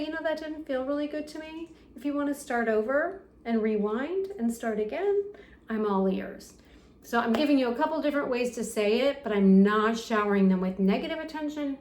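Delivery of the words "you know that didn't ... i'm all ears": calm, gentle reply. Shown as a demonstration. Parent calmly invites kid to rewind, gentle. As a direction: invite a restart kindly and calmly. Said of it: "But if you just say".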